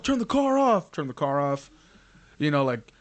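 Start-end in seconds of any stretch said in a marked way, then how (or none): 0.0-0.9 loud, much higher police command; raised voice, ordering a driver from afar; cop over loudspeaker. Retold or imitated. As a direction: imitate a cop shouting "turn the car off". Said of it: "on his little thing, he's like".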